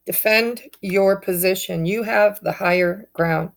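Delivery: speaking through sudden hiccups; words broken by hiccups. Real, not acted. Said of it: "I got the hiccups all of a sudden".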